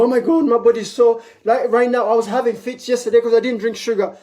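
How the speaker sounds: high whiny mock complaint, fast; a dramatic sugar addict moaning; mock complainer. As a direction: whine like someone craving sugar. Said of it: "you're not gonna go".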